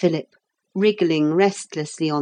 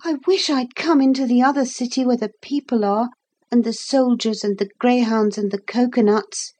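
put-on slightly higher, quicker boy's voice; a hint of a boy wishing to himself; lightly voiced lonely boy; 5 semitones higher than usual. Boy telling himself he chose wrong, lightly voiced wistful boy.

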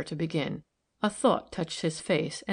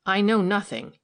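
NOTHING in an emphatic, louder declaration; firm, raised-volume stress on "I know nothing"; 5 dB louder than usual. A narrator's reading. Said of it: "he said with emphasis".

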